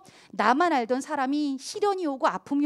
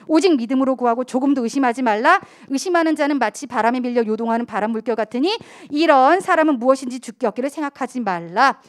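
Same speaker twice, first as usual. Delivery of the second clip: scripture reading; 7 dB louder than usual. Acted. Scripture read aloud.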